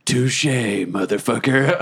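slow, drawn-out concession to a rival; measured mock-tough retort; acted taunt. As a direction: savour the comeback.

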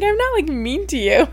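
laughing through the words, half crying; laughing protest. Retold or imitated. Teasing boyfriend about his comment, laughing protest. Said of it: "I'm like".

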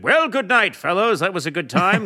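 mock-formal lilting farewell; hearty ambassador send-off. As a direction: imitate an official bidding guests good night. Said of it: "the ambassador said".

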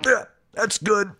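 high, woozy, giddy voice; gassed-up dentist. Acted. Dentist after taking laughing gas himself, high and giddy. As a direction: sound floaty after a hit of gas.

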